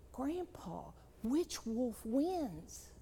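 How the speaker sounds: put-on soft and very slow, a wondering little boy; hushed child question. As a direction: ask it quietly, almost to himself. Grandson ponders, asks softly.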